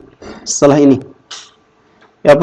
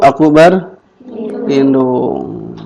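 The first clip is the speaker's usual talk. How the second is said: very slow, word by word; teacher drawing out each word to model it; slow model phrase; much slower than usual. Shown as a demonstration. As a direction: spell it out slowly for the class.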